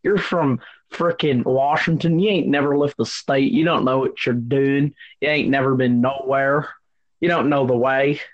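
put-on Southern twang; Southern accent. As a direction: scold in a hammed-up Southern accent. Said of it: "y'all can't do a proper Southern accent".

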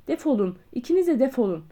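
loud, angry order to get out; a doctor ordering two guests out, shouting. Acted. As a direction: throw them out with your voice. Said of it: "diye bağırdı".

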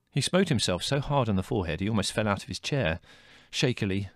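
ordinary delivery, nothing marked

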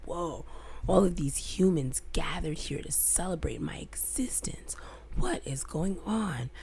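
hushed, breathless wonder; awed whisper. Retold or imitated. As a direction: whisper it in amazement. Awed reaction quoted in story.

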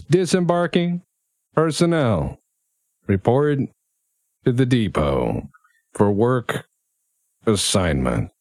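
distorted, bored tannoy announcer; bored PA announcement. Acted. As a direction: read it like a tired PA voice. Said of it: "very bored voice coming over a P A".

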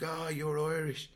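high, slow mock surprise; mocking the Irish lad. Retold meeting with Irish lad.

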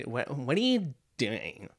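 slow mock-baffled question with a pitch jump; retold puzzled wife, drawn out; wife's bewildered question. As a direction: imitate a baffled wife, stretching the words. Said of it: "varsity cheerleader or what".

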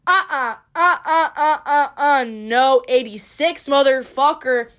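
loud uh-uh through a laugh; sassy laughing no. Retold or imitated. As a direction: laugh off the idea, head shaking. Sassy refusal noises with laugh.

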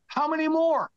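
high, strained mock shout upward; retold yell. Crewman to the ship's captain above, yelling up. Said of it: "I yell up to him".

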